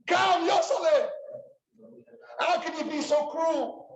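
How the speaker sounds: mother calling out. Retold or imitated. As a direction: call him home from across the distance, begging. Mother calls son home from yeshiva.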